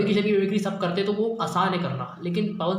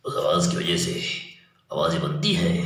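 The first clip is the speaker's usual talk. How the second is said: much lower, deep chest voice; deep voice demo; 12 semitones lower than usual. Shown as a demonstration. Teacher showing students a deep voice, much lower. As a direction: drop deep into the chest and resonate. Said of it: "ये जो गहराई होती है आवाज़ में".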